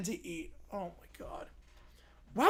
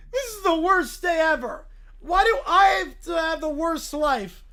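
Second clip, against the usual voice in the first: whiny complaint; 4 dB louder than usual. Acted. Whining about frying pan.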